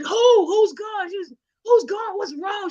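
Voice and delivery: high, urgent questioning; retold panic. Grandchild questioning grandma on the phone, acted alarm. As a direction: act out pressing for an answer. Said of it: "so I'm panicking".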